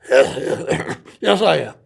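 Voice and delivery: put-on a light South African golfer's accent that slips toward Scottish; a mock South African accent that drifts Scottish; imitating a South African accent. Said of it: "That's more Scottish than it is South African".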